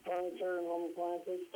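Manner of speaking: phone held away. Real, not acted. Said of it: "You're so far away from the phone".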